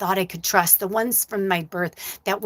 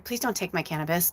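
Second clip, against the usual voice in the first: quiet plea; 7 dB quieter than usual. Retold or imitated. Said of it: "I said to Spirit".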